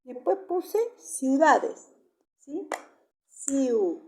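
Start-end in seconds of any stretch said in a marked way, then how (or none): 3.3-4.0 "Ciu" held out as one syllable; isolated syllable. Shown as a demonstration. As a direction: sound out "Ciu" on its own, drawn long. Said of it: "lo separo en sílaba".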